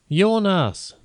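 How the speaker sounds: high, alarmed call of a name; a mother crying out her son's name in horror; horrified cry. A narrator's reading. Mother calls her son's name, high and horrified. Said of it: "wird von einer Frau entsetzt gerufen".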